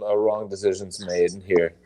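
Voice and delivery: words a bit slurred, tipsy. Real, not acted. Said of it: "I said decisions like a drunk person".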